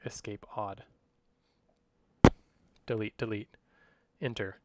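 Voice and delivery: clipped voice commands spoken in quick bursts; fast dictation. Shown as a demonstration. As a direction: rattle off code commands like dictating to a computer. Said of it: "with a pretty fast voice".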